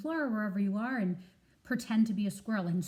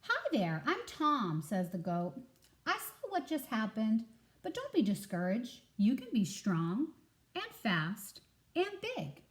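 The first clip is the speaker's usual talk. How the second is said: encouraging goat. Acted.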